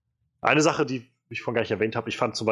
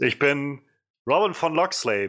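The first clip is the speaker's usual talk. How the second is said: put-on German said with a light American accent, pitched up; 4 semitones higher than usual. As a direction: imitate an American actor's accent speaking German. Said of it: "mit so einem amerikanischen Akzent sagt". (leicht amerikanischer Akzent auf Deutsch)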